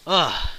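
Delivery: loud groan of regret; pained, disappointed ugh; exasperated groan. Real, not acted. Lamenting the missing trombones.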